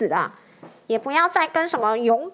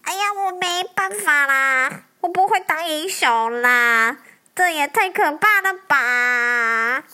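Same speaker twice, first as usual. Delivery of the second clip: trembling with fear; 4 dB louder, slower than usual. Acted. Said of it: "吓得一直发抖".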